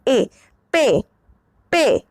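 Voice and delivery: पे with a straight e and no glide; flat clean पे; pron demo. Shown as a demonstration. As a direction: sound out पे, then ए alone. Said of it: "ये सीधा ए होता है".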